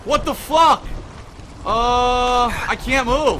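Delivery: loud, high swearing yell; angry shout. Real, not acted. Gamer swearing at the glitched game, angry shout. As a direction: bark it at the broken game.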